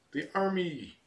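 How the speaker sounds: jokey high punchline. Real, not acted. Punchline answer about birthplace.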